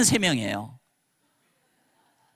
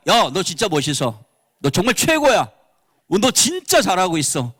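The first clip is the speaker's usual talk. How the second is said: hearty praise. Shown as a demonstration. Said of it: "이겁니다, 이거".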